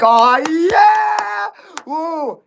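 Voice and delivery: high excited whoop; cheering. Retold or imitated. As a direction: cheer loud and high in the theater. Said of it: "We're gonna be like".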